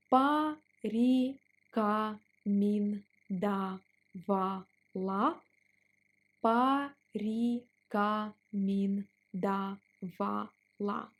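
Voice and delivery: порекомендовала stretched out; slow drill on порекомендовала. Shown as a demonstration. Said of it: "Let's pronounce it slower".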